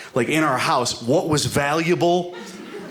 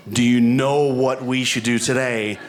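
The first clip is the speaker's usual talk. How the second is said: slow mock quote; slower than usual. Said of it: "no woman has ever said".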